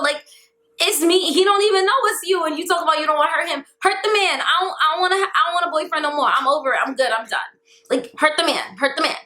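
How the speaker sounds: high-pitched exasperated rant. Retold or imitated. Exasperated retold rant at sister.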